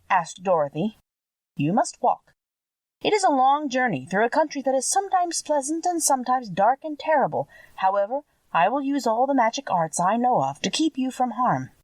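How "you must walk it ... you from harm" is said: put-on lightly higher, kindly old lady voice; a hint of a motherly witch breaking sad news; kindly old witch, gently regretful. A narrator's reading. Witch of the North telling Dorothy she must stay, lightly voiced kind old woman.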